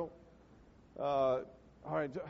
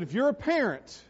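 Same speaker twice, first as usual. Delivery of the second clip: loud, raised preacher voice; imitating dad preaching, pitched high and forceful; dad's preaching; 7 semitones higher, 6 dB louder than usual. Retelling dad's sermon to parents, loud preaching. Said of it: "That's how he said it".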